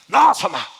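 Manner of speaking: loud brusque answer; gruff mother. Retold or imitated. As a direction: brush off the preacher. (전도사에게 퉁명스럽게 대답하는 어머니)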